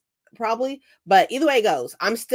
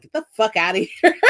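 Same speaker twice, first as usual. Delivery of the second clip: laughing retort; 4 dB louder, faster than usual. Retold or imitated. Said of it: "she's like".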